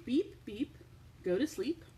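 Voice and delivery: usual speaking voice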